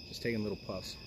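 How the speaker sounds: talking around a cigar; cigar in mouth. Real, not acted. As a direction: speak with a cigar between lips. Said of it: "put the cigar in my mouth".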